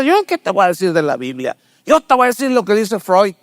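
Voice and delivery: lightly voiced secular psychologist scoffing at the Bible; mock psychologist. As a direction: brush the question off, sneering.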